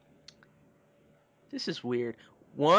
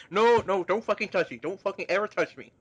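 angry recoil; 3 semitones higher than usual. Acted. Acted Paul recoiling from touch.

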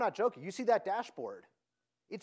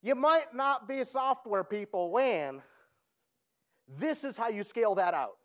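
slow, louder Southern comic one-liner; Jeff Foxworthy; 4 semitones higher, 4 dB louder than usual. Retold or imitated. Speaker to tech audience, doing a comedian impression. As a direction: deliver it like a redneck-joke punchline. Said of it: "my best Jeff Foxworthy impersonation".

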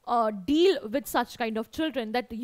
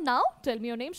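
sweet and gentle; 3 semitones lower, much faster than usual. Acted. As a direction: ask kindly, like a sweet teacher. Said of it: "sweet manner".

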